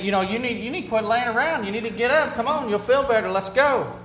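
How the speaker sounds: mock nagging to get moving; pushy pep talk. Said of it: "and I say".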